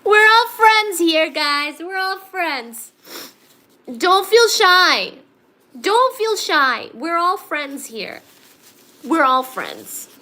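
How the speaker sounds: high, slow, sing-song coaxing; coaxing reassurance. Acted. Teacher coaxing shy stream viewers, slow high sing-song. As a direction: gently coax shy viewers to speak up.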